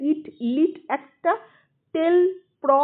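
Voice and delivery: ইট, লিট grouped, then টেল, প্র as separate beats; teacher chopping ইট, লিট, টেল, প্র into syllables; syllables in pairs. Shown as a demonstration. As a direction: count off the beats, pausing between টেল and প্র. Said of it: "দুটো দুটো করে ধরি".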